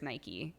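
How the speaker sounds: "Nike" said as NY-kee; local pronunciation. Shown as a demonstration. Correcting the British version, "Nike" pronounced NY-kee. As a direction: say "Nike" with two syllables, ending in ee. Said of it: "the way that we pronounce it here".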